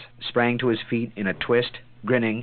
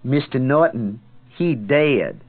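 sardonic; 5 semitones higher, 3 dB louder, slower than usual. A narrator's reading. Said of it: "intoned sardonically".

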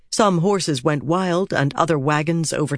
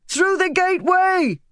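high-pitched urgent shout; shouted order. A narrator's reading. Woman steering wagons through commotion, shouting. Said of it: "Fail shouted".

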